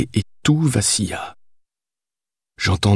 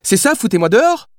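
mild cry of protest; 13 semitones higher than usual. A narrator's reading. Billy protests being thrown out, crying out high. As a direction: cry out high without real volume. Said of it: "cria-t-elle".

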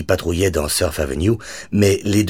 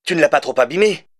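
phone voice; 10 semitones higher than usual. A narrator's reading.

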